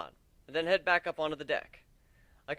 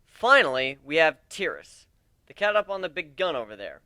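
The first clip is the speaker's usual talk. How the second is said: addressing a crowd; 5 dB louder than usual. Acted. Captain lays out ship to recruits.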